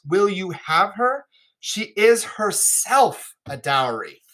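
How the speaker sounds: lightly acted, earnest royal speech; King of France. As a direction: plead her case in formal stage verse.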